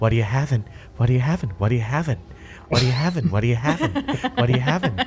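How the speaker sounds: hushed whisper. As the Kenku bartending crew whispering to each other, whispering. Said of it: "whispering to each other".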